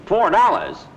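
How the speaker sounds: loud, outraged disbelief; indignant surprise. Acted. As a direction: balk loudly at the offer. Offered too little for chain.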